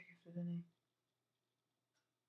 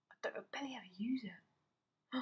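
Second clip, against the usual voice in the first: whisper; 3 semitones higher, 6 dB quieter than usual. Real, not acted. Whispered aside.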